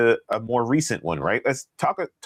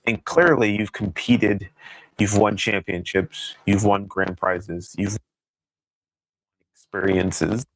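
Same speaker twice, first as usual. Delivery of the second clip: breaking-up, crackly mic audio; crackling mic. Real, not acted. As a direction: voice cutting in and out. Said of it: "The, the mic is cracking".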